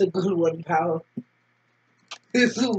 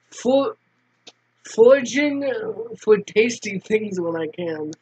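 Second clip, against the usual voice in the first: lightly voiced laid-back boy; a hint of a cagey street kid; character voice; 2 semitones lower than usual.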